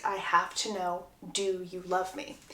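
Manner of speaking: soft, low, tender asking; hushed, lightly acted plea; man's earnest question. Lover finding the crying bride, soft low question. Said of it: "a male voice ask".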